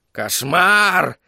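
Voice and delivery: squawked cry of alarm; parrot cry. A narrator's reading. Parrot head raising the alarm to its master, crying out. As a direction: cry out the word, voice lifted high. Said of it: "крикнула одна голова попугая".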